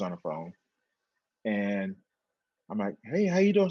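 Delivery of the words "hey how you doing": excited greeting. Retold or imitated. Greeting sister on the phone.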